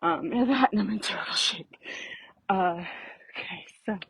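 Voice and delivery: breathless walking uphill; puffing between words; out of breath. Real, not acted. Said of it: "That's why I'm kind of winded".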